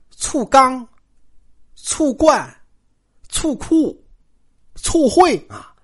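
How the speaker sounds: high punched items with pauses between; mounting comic list. A narrator's reading. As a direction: step the pitch up item by item. Escalating comic list of jealousy names.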